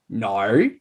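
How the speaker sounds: "no" as a drawn-out Australian vowel; exaggerated Australian "no"; demonstrated Aussie "no". Shown as a demonstration. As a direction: say "no" with a bent Aussie diphthong. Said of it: "the sound you're trying to conquer".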